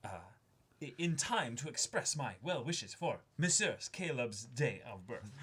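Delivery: lightly hammed-up, archaic formal reading; old-timey letter voice. Reader voicing a friend's archaic birthday letter, lightly theatrical. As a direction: read it like a quaint gentleman's letter. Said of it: "my old-timey writing barrel".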